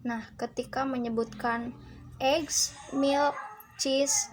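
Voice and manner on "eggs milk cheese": "eggs", "milk", "cheese" each set apart and raised; rising list items. Shown as a demonstration. Student points out the list words, rising on "eggs", "milk", "cheese". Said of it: "dibacanya naik".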